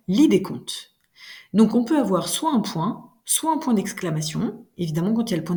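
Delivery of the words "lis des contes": lis des contes as a firm order, lis stressed; teacher demonstrating an order; command tone. Shown as a demonstration. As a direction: give the order, a bit louder.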